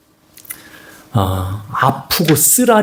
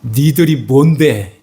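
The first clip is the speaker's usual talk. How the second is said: arrogant; slower than usual. Acted. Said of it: "이렇게 했던 자가 베드로".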